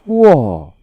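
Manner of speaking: high, loud gasp of awe; amazed wow. Acted. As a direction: let out a big impressed wow. Junior marvels at senior's story. (크게 감탄하며)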